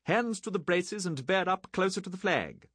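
high, loud commanding bellow. A narrator's reading. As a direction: bellow the officer's name. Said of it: "Treghughes bellowed".

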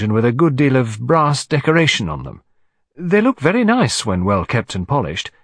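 lightly voiced efficient secretary; Miss Lemon, matter-of-fact. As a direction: explain helpfully to your employer.

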